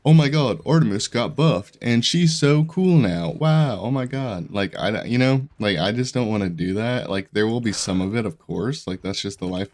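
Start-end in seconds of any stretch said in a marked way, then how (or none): 0.1-4.5 gushing, high, loud and slow; over-the-top sarcastic fanboy gush; mock clickbait hype. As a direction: ham up the fake YouTuber excitement. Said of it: "solely all of my content is just".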